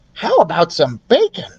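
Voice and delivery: hopeful mouse; lightly voiced mouse. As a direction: mouse asking for bacon. Ralph voiced.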